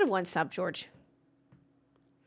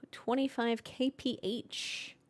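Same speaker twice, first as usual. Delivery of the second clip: slow hushed whisper; 6 dB quieter, much slower than usual. Real, not acted. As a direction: whisper it out slowly.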